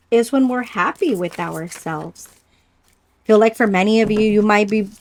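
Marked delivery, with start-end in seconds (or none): 3.3-4.9 stumbling over the words, repeating; stuttering, restarting words. Real, not acted. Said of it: "I'm stuttering with my words".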